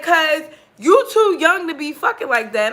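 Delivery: amused retelling of his line; laughing through quote. Retold or imitated. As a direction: giggle through his words. Quoting him, laughing.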